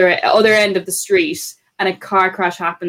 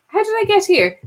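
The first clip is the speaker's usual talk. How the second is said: confused granny; 12 semitones higher than usual. Retold or imitated. Granny's confused words retold.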